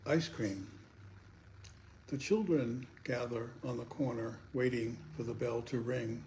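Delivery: measured poetry reading, pausing between lines; poem recitation. Acted. Poet reads a light ice cream poem to listeners, measured recitation. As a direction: read it as a light poem, phrase by phrase.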